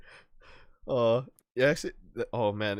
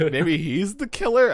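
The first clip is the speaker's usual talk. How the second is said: mock suspicion; 8 semitones higher, 8 dB louder, slower than usual. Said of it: "I was like".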